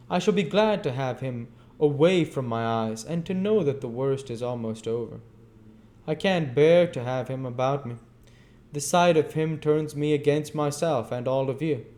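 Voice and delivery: put-on bitter young woman. A narrator's reading. Nancy's bitter outburst.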